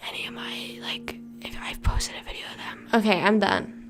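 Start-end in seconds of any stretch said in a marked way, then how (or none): 2.9-3.9 whispered, but pushed out hard; last ASMR whisper. Shown as a demonstration. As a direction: whisper the sign-off with force. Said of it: "I have to do A S M R for a minute".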